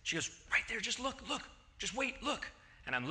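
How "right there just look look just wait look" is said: higher, softer, urgent pointing; lightly voiced wife, hushed and pressing. Wife insisting, voiced by husband.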